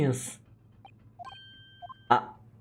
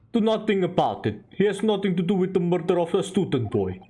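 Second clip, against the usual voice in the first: put-on Russian-accented sailor. Sailor showing visitors the first-class cabins, Russian accent. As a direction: show off the ship in Russian accent.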